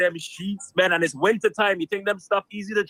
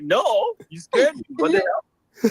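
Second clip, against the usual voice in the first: retold alarmed refusal; 10 semitones higher than usual. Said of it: "I was like".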